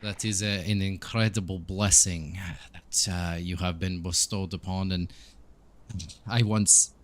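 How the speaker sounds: put-on lightly accented priest character; a measured, accented priest's voice; Donovich. Priest answering the adventurer about a lost blessing, lightly accented. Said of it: "he remarks that".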